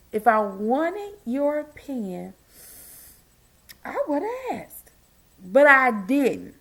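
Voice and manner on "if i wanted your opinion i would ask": mock sweet. Shown as a demonstration. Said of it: "I even got a shirt that said it".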